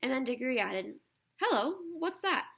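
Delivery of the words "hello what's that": surprised. A narrator's reading. Diggory spots the guinea pig.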